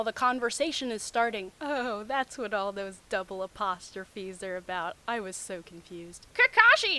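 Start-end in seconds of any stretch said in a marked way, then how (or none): 6.3-7.0 loud high call of the name. Acted. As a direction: call him sharply from across the room. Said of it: "she called".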